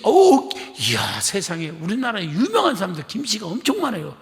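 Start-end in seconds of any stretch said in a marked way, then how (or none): 0.0-1.7 mock amazement. Mock amazement at Kim surname.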